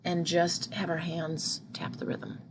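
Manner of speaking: whispered cue to tap silently. Shown as a demonstration. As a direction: hush it so the class only thinks the words. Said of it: "think the syllables".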